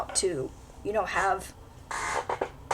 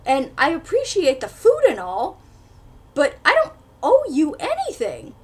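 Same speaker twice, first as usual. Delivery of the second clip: indignant inner retort; 3 semitones higher, 4 dB louder than usual. Retold or imitated. Reader's furious silent reply to the pushy hero. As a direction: snap back at him in your head, outraged. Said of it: "in my head, I'm like".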